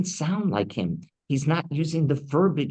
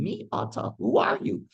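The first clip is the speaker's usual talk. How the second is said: startled blind father; 13 semitones higher than usual. Retold or imitated. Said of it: "says to him".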